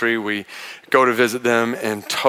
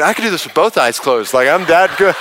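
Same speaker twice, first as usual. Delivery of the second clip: cocky inner voice; 4 semitones higher than usual. Retold or imitated. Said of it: "inside I'm thinking".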